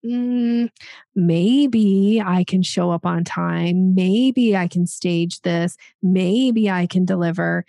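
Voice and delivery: slow, drawn-out 'maybe', mildly wavering; hesitant. Acted. Coach imitating a stager nobody would hire, hesitant. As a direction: stretch each maybe as if undecided. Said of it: "somebody who's like".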